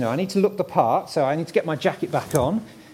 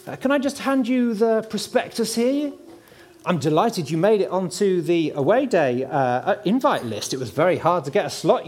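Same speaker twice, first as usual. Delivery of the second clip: gushing real estate agent. Pretend. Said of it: "do my best estate agent impression".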